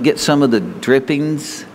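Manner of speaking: the wrong wording, drawn out slowly, Get some of the drippings. Shown as a demonstration. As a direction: set up the wording he will correct. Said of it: "They didn't say it that way".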